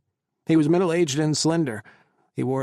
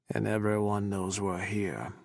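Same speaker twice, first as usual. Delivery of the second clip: growled; 4 semitones lower, 5 dB quieter than usual. Acted. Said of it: "Ryan growled".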